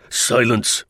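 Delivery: mild roar of command; restrained military roar; burly officer's roar. Acted. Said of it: "roared a burly non-commissioned officer".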